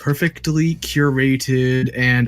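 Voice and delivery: slow, measured parody of staged players; mock scripted spokesperson. Fake voice actors selling the game, mock scripted delivery. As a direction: recite it like focus-tested fake gamers.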